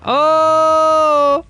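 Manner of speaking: sudden high loud yelp of surprise; jolted yelp mid-race; startled yelp. Real, not acted. Streamer yelps at a sudden crash, high and loud. Sudden shout while gaming.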